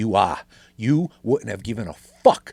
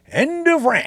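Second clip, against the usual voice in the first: mock sign-off; 7 dB louder than usual. Mock sign-off, then takes it back.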